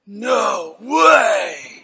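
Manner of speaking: loud, drawn-out amazement; amazed disbelief. Retold or imitated. Preacher watching little feet turn, stunned disbelief. Acting amazement at bones healing.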